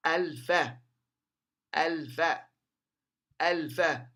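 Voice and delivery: "الفاء" as al-fa with a clear l; lam pronounced. Shown as a demonstration. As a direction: sound the ل before fa in "الفاء". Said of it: "هنا اللام تنطق". (نطق "الفاء" بلام ظاهرة)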